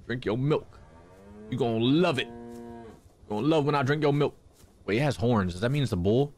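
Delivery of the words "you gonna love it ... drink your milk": voicing a cow in a squeaky put-on voice.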